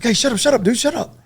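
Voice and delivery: high, urgent hush; shushing. Retold or imitated. Teammate hushing him during the attack news, high and urgent. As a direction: pitch it way up to cut him off.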